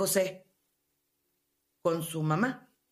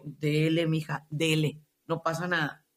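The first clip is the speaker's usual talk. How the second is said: sarcastic goading; 4 semitones lower than usual. Real, not acted.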